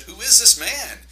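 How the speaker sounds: high, loud astonished cry; shocked disciples. A narrator's reading. Disciples in the boat, stunned and shocked. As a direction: gasp it out in disbelief. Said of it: "they were so shocked they said".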